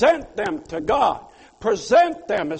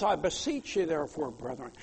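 pleading; 7 semitones lower, 8 dB quieter than usual. Shown as a demonstration. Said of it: "kind of like pleading and strongly emphasizing".

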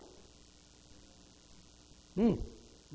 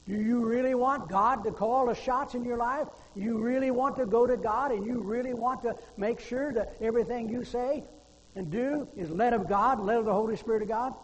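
louder, higher pulpit challenge; forceful preaching; 6 semitones higher, 6 dB louder than usual. Real, not acted. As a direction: press the congregation hard with each question.

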